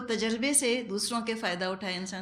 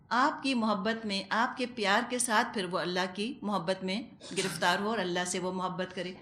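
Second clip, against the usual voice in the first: tender; 2 semitones lower than usual. Shown as a demonstration. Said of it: "ماں کی پیار بھری آواز".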